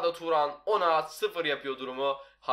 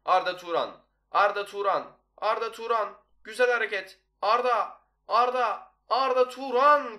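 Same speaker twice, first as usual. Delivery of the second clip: name called higher and louder each time; building goal call; 7 semitones higher, 6 dB louder, slower than usual. Real, not acted.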